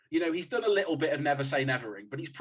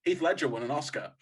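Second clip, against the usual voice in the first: obsessive mental loop; 3 dB louder than usual. Acted. Imagining the director's head on a loop, building obsessively. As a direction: repeat like a nagging voice, building. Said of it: "That's just going on a loop".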